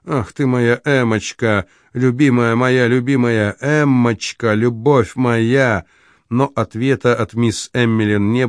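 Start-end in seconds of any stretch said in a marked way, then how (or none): none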